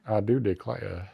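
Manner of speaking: put-on 1 Southern belle accent. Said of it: "a delicate Southern belle".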